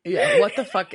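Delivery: laughing, loud and high. Real, not acted. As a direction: laugh through the words. Echoing the shocked reaction laughing.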